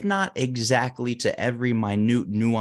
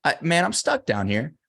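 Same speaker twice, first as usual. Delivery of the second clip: higher-pitched mock shout to a passer-by; retold plea, raised but not truly shouted; calling up for help; 5 semitones higher than usual. Man stuck in a hole to a doctor, pleading call. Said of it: "the guy shouts up".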